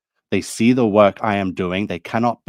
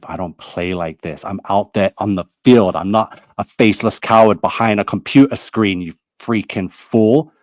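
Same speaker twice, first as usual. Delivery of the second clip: angry; 3 dB louder than usual. Real, not acted. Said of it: "I'm getting angry".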